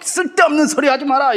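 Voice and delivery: high mock yell of the crowd; a crowd shouting Stephen down; retold crowd yell. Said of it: "이러면서 막 소리를 지르니까".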